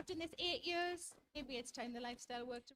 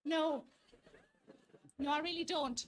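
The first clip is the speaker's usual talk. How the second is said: firm loud no; 5 dB louder, slower than usual. Real, not acted. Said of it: "firm refusal to fella".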